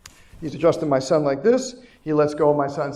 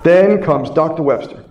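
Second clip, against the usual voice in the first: louder, like a big introduction for "Then comes Doctor Webster"; loud announcement; 8 dB louder than usual. Real, not acted. Speaker introduces the next mentor to his audience, loud announcement. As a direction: boom out the name as a big reveal.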